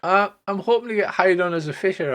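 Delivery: a hint of a hopeful young girl; halfling girl. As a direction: explain hopefully. Scylla continues.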